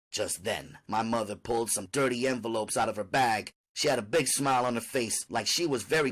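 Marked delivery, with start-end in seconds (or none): none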